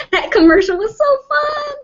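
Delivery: high squeal through real laughter; giggly delight. Real, not acted. Woman delighted by an old commercial she just recited, laughing squeal.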